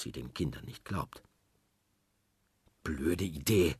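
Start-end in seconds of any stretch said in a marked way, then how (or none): 2.8-3.8 put-on grumbling boy. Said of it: "schimpft Peter".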